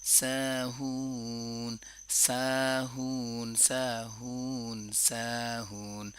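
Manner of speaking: slow, drawn-out chanted recitation; Quran recitation. Shown as a demonstration. Tajweed teacher reciting a verse slowly for students. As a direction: recite slowly, stretching each long vowel.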